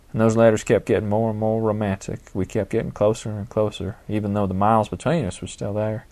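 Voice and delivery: fond, lightly voiced Southern grandmother; a gentle old Southern belle, reminiscing; elderly Southern lady. Gertrude continues her story.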